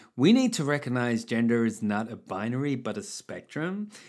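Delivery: rising pitch at the end of each phrase. Quoting what she said, as imagined: upward inflection at phrase ends. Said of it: "I'm going to read this with an upward inflection because I imagine this is how it was said".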